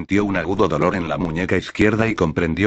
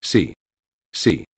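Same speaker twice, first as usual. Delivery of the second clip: squealing; 3 semitones lower than usual. A narrator's reading. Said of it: "chilló Acechador".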